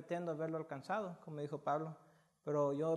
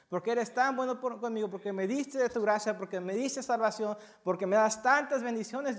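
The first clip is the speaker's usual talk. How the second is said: fervent thanks; 4 semitones higher, 6 dB louder than usual. Retold or imitated. Voiced prayer of gratitude.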